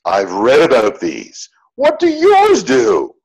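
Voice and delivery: excited curious woman; eager nerding out. Retold or imitated. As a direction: voice jumps high and loud on the question. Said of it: "the woman immediately nerds out".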